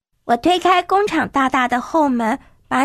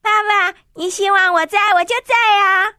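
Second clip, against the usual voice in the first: put-on higher-pitched, cheerful girl's answer; smiling reply; 4 semitones higher than usual. Daughter answering Dad's wish, smiling and higher-pitched. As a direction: answer with a smile, voice lifted. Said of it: "我笑着回答".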